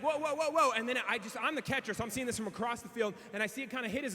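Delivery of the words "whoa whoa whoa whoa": rising, louder excited whoas; mock alarm whoa whoa whoa. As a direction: sell the wobbling ball with mounting alarm. Excited retelling of wild ball.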